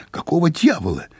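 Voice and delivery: grumpy, roused from sleep; angry hoarse voice. A narrator's reading. Sleepy guest answering a knock, angry. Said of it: "сердитый сипловатый голос осведомился".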